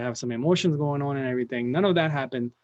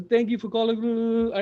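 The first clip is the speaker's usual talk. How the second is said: higher, slow, shaky first-day greeting; nervous phone greeting; 7 semitones higher, 3 dB louder, slower than usual. Retold or imitated. Nervous new hire on his first call, stumbling and scared. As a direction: stumble through it scared stiff. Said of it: "I was scared of shaking".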